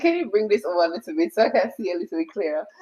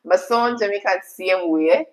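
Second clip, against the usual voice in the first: Jamaican accent. Real, not acted. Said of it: "if I talk patois".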